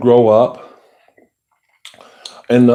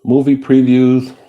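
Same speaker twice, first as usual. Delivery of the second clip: slow, loud, higher trailer announcer; movie preview voice; 6 semitones higher, 5 dB louder than usual. Shown as a demonstration. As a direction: boom it out like a film trailer. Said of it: "A movie preview voice?".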